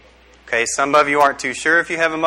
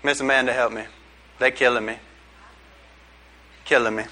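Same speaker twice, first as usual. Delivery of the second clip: mock plea for help; 6 semitones lower, 7 dB quieter, faster than usual. Preacher mock pleads for help from students.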